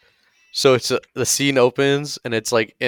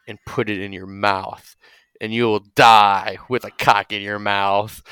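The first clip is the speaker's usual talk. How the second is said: menacing prison guard; 2 semitones lower than usual. Acted. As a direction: spell out the sentence unhurriedly. Guard threatens chained prisoners.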